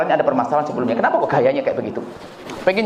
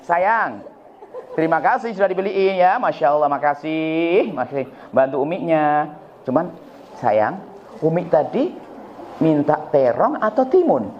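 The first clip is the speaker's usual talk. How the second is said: gentle mother asking; slower than usual. Retold or imitated. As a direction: ask the child kindly, without blame. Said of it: "Anda itu mungkin bisa sadar kalau begini". (ibu bertanya dengan lembut dan pelan)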